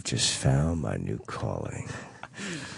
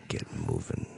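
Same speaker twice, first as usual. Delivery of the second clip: radio voice. Shown as a demonstration. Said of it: "Like that bass".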